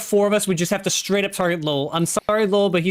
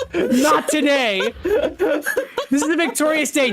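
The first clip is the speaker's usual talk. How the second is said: slow laughing triumph; 2 semitones higher, slower than usual. Real, not acted. Gloating after the pet survives.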